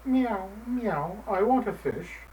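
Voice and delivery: hungry cat begging; mewing cat. Acted. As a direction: mew hungrily for a fish. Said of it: "hungry Sherzina".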